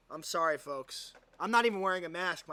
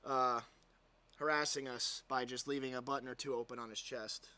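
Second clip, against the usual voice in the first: sarcastic apology; 4 semitones lower than usual. Pretend. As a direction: fake remorse, dripping irony.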